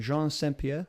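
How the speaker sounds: Saint Pierre said the French Canadian way; French accent. Shown as a demonstration. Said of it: "try and do a French accent there".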